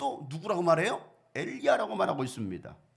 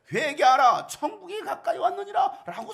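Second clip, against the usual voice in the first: much louder and higher, a full-force cry of 회개하라; a proclaiming cry, higher and louder; loud proclamation; 10 semitones higher, 10 dB louder than usual. Retold or imitated. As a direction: shout it out to the whole crowd, breaking into a laugh. Jesus repeating the same proclamation.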